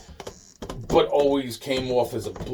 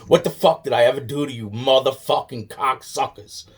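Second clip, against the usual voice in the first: angry inner rant. Retold or imitated. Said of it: "'Cause I'm saying to myself".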